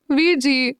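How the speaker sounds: a light huffy complaint to her brother; annoyed. A narrator's reading. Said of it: "Meera चिढ़कर बोली". (हल्की सी चिढ़ के साथ, ऊंची आवाज़ में)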